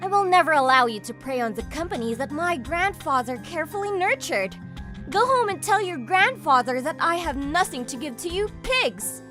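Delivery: forceful, furious refusal; indignant tirade. Acted. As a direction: send him packing with contempt. Woman defends grandfather's company.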